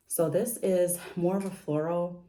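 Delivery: breathless after climbing stairs; winded from the steps, panting between words; out of breath. Real, not acted. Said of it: "I have to catch my breath from going up those steps".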